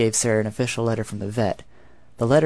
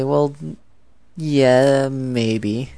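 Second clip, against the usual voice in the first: put-on higher, louder playful English accent; 5 semitones higher, 5 dB louder, much slower than usual. Student teasing curious classmates on the first day, coy English accent. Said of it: "in an English accent or something".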